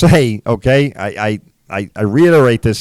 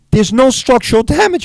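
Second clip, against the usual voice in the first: higher, incredulous protest; 10 semitones higher than usual. Retold or imitated. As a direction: blurt out disbelief at the estimate. Examining the car, incredulous.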